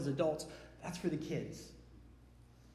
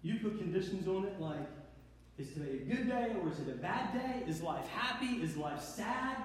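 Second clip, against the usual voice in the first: a jealous lover speaking quietly; quiet God voice; 6 dB quieter than usual. Acted. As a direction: confide the hurt softly. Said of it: "And he goes".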